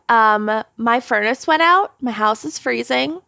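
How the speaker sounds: put-on light Minnesotan accent; a hint of a Minnesota twang. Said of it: "I decided to go for the accent for the whole intro".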